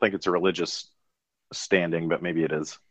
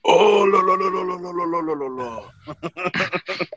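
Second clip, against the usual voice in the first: excited French commentator; 12 semitones higher, slower than usual. Retold or imitated. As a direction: gush like a thrilled sportscaster. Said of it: "the French commentators, and it was just hilarious 'cause they were just like".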